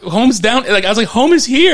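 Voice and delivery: high, loud comic yelling; shrieked protest, played for laughs; exasperated protest. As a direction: shout it in mock desperation. Retold plea to land at home.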